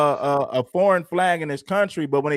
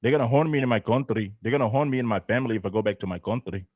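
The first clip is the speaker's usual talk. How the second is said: mock pleading asylum seeker; 7 semitones lower, 3 dB quieter, faster than usual. Mocking migrants who beg not to be deported, whiny pleading. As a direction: lower and softer, a half-hearted whimper, rushed on the second line.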